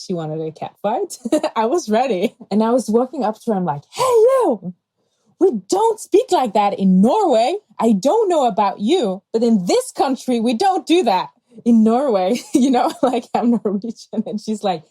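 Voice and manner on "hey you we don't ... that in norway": much higher and louder, calling her out; loud, firm call-out of a stranger; retold confrontation. Confronting a woman on the subway.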